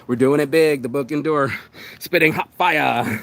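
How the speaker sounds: pumped up. Real, not acted. Hyping up the session to viewers, real pumped-up energy. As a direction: fire it out like a hype man. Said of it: "I'm just pumped up this morning".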